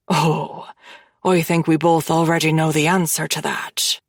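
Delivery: a hint of a low, sly man; lightly voiced smug Killian.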